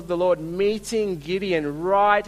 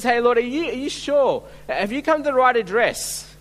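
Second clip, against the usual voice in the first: doubtful questioning; 5 semitones higher, 4 dB louder than usual. Acted. Voicing Gideon doubting God's choice.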